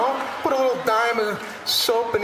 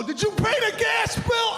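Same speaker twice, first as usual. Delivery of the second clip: mock nagging spouse. Husband mocking chit-chat during class, high shout. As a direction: blurt the chore question like a nag.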